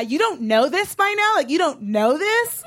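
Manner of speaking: high, indignant questioning; acted incredulous scolding. Girlfriends school the drunk man, high-pitched incredulous scolding. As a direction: lecture him in mock disbelief.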